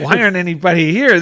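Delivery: hammed-up bewildered visitor; mock puzzled outburst. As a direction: toss it out like a baffled tourist. East Coast visitors puzzled at empty beach.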